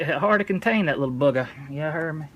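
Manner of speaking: put-on light African American accent. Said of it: "Talking ghetto now for some reason".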